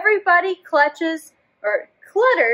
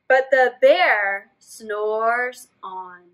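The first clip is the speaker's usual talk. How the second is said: slow refrain; 4 semitones lower, much slower than usual. Acted.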